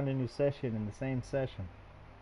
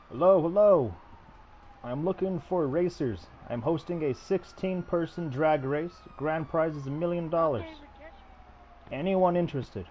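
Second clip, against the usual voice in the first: booming prize announcer; 2 semitones higher than usual. Acted. Hosting drag race, calling lobby.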